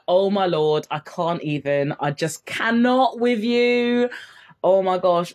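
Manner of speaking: mock gushing girlfriend talk, slow on cannot; slangy friend voice. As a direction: act out chatting with girlfriends. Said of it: "I'll be like".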